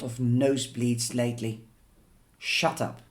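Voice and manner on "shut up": sniping. Acted. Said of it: "she snipes".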